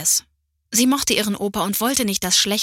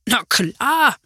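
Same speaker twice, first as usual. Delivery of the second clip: smiling; 4 semitones higher, 4 dB louder than usual. A narrator's reading. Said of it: "lächelte Opa".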